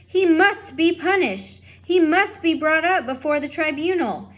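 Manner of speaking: loud, high, stern decree; stern loud demand. Acted. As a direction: declare it like a judge. Lester demanding punishment.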